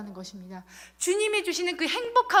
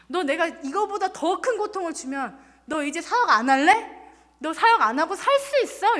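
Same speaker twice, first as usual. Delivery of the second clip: challenging question; 3 semitones higher, 5 dB louder than usual. Retold or imitated. Voicing God's challenging question.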